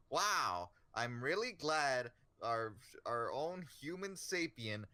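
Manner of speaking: mock stilted exposition, big swoop on the opening word; expository character. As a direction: imitate a character spelling out the plot. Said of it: "she just sounds like a expository character".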